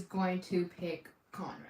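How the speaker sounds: whispered secret theory. Real, not acted. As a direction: lean in and whisper the reveal. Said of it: "conspiracy theory reveal".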